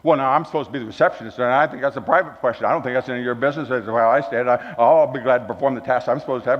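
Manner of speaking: fast, huffy job applicant; mock indignant receptionist. Interviewee brushing off the pastor's question, fast and huffy. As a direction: rattle it off, offended and fast. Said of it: "first questions we asked was".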